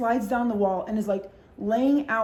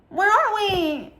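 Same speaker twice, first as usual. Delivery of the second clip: put-on much higher, slow, dazed drunk voice; groggy drunk friend; 11 semitones higher, 5 dB louder, much slower than usual. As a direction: wake up confused and drag it out. Drunk friend waking in car.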